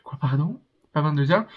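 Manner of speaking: mild incredulous echo, rising at the end; retold disbelief. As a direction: repeat her words back in mock shock. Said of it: "Je fais".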